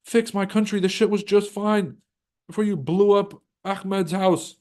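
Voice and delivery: high indignant mock voice; mock outrage. Locals scolding America for bombing them, high indignant voice. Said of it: "They're like".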